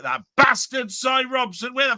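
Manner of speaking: mock outrage at Cy Robson; mock rant. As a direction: rant at the latecomer for show. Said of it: "I've got a rant at Cy Robson".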